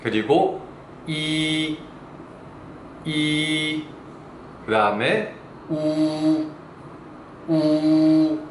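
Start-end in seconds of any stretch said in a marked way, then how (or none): 1.1-3.8 "이" held long and level; slow, clear model of the vowel "이"; Mandarin vowel demo. Shown as a demonstration. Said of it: "발음과 함께 배워보도록". 5.7-8.4 "우" held long and level; slow, clear model of the vowel "우"; Mandarin vowel demo. Shown as a demonstration. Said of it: "발음과 함께 배워보도록".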